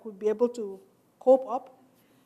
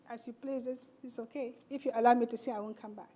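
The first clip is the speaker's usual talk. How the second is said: meek reply; 7 dB quieter than usual. Retold or imitated. Meek reply to angry guard.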